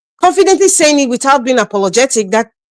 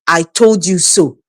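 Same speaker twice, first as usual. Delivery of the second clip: gloating; 6 semitones lower, slower than usual. Real, not acted. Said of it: "At least I can gloat and say".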